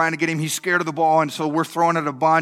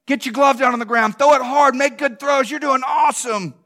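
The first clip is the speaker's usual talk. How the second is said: mild mock encouraging yell from the stands; 5 semitones higher, 3 dB louder than usual. Dad calling to his son pitching, lightly encouraging yell. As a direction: cheer him on from the sidelines, a bit louder. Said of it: "yelling, not yelling at my kid, encourage him".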